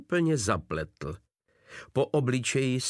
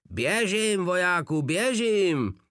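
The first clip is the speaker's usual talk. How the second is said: higher, more frantic mock yell; repeated yell; 8 semitones higher, 3 dB louder than usual. A narrator's reading. Blac repeats his order, even more frantic and shrill. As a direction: scream it once more, desperate. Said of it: "opakoval Blac".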